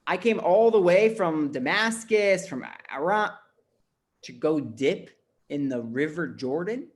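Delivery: mock the idea of dipping in the Jordan; scoffing. General scoffing at the prophet's order, incredulous. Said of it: "He scoffs at him".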